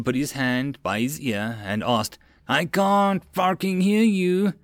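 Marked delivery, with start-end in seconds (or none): 2.5-4.5 slow, high-pitched demand; drill officer's yell. A narrator's reading. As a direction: stretch it out at the recruits. Officer demands louder answer.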